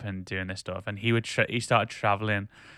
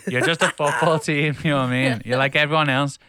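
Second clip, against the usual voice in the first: louder, higher, fed-up outburst; exasperated raised-voice rant at football fans; 5 semitones higher, 6 dB louder than usual. Real, not acted. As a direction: vent at the smug fans, raising your voice. Ranting at Liverpool fans.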